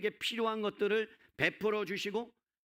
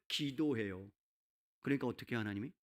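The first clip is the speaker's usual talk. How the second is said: ordinary delivery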